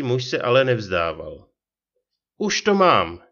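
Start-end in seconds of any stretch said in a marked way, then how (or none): 2.4-3.2 sudden high, louder burst of recognition; old ferryman blurts out that he remembers, higher and louder; blurted out. A narrator's reading. Ferryman suddenly placing the passenger's face, excited blurt. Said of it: "vyhrkl náhle".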